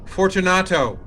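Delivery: high, loud call into the dark; loud impatient call; calling aloud. Acted. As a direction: call his name through the wall. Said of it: "I called again".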